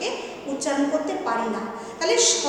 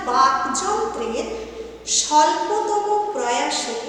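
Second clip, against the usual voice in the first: 1 slow dictation; slower than usual. Shown as a demonstration. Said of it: "আবারও বলছি দেখো".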